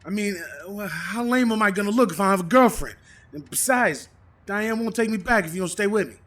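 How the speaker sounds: loud pleading. Acted. Pleading not to be dumped.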